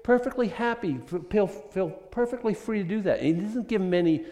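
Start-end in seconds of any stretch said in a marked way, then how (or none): 0.0-3.2 God granting permission. Retold or imitated. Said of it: "God's saying".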